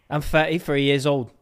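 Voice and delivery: put-on a light British accent, fetty-free; a hint of a British accent; mock British accent. Husband showing off his accent to wife, in a light British accent. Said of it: "that was Australian".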